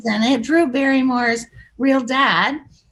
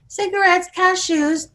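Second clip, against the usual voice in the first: lightly sung-out vendor call, raised pitch; cigarette girl call; 5 semitones higher than usual. Acted. Acts out cigarette girl's sales call.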